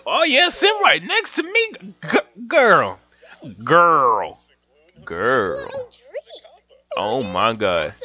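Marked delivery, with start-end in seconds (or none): 0.1-5.9 mock flirting. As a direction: sweet-talk her onto the seat, pitched up. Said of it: "I'ma flirt with her real quick".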